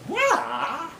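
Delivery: "why" drawn out long and high; syllables added. Shown as a demonstration. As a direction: stretch "why" as if it had three syllables. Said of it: "we add syllables. And we do this for emphasis".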